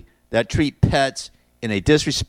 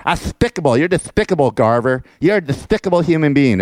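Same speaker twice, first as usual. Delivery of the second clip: higher lisping cartoon duck voice on despicable; Daffy Duck; 5 semitones higher than usual. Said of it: "And then, uh, Daffy Duck".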